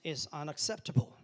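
slow, spaced Selfishness is unacceptable; slow call and response. Shown as a demonstration. Pastor leading congregation to repeat, slow. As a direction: model it for them to repeat. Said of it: "Look at your neighbor and say".

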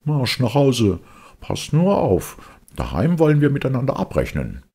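high, loud scolding, rushing at the end; a cross father threatening a reckoning; stern scolding. Acted. Seppel scolding his runaway puppet, loud and stern. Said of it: "wackelte ganz bedenklich mit dem Kopf und sprach".

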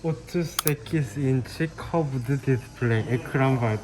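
slow, slurred words through a numb mouth; talking after tooth extraction. Real, not acted. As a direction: talk carefully around a sore gap. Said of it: "Konuşamıyorsun bile".

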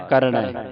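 ਕਰਣੈ with an open -ai ending; double-lavan ending. Shown as a demonstration. Teacher repeating it for the student, double-lavan ending. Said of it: "ਦਲਾਵਾਂ ਦੇ ਨਾਲ ਕਰਣੈ".

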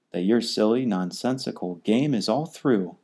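a touch of a snap; snapped. Acted. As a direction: dismiss it curtly. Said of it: "snapped the big kangaroo".

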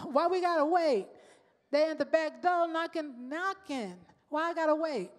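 acted-out griping at God; impatient complaint. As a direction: protest the wait, half playfully. Acting out impatient questioning of God.

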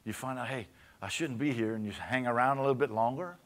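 steady sermon cadence; preaching. Acted. Pastor exhorts his church, steady preaching voice. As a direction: preach it to the pews, measured.

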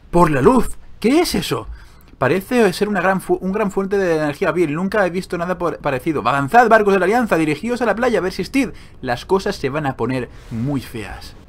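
rally the ships like a fantasy hero; Alliance hero reading. Acted.

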